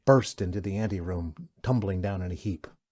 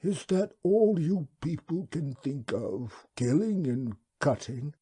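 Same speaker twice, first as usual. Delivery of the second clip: hushed, high, slow creature voice; reproachful wub whisper; 8 semitones higher, 4 dB louder, slower than usual. Acted.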